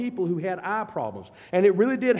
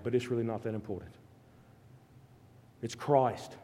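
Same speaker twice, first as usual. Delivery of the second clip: softer, lower, intimate sermon voice; quiet reflective preaching; 5 semitones lower, 6 dB quieter than usual. Acted. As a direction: draw them in close and hush.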